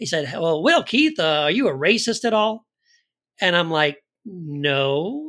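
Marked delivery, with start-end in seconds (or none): 0.3-2.6 play-acted, plain, ordinary voice. Retelling what a man asked you at a restaurant dinner, retelling a loud question. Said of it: "He said this really loud".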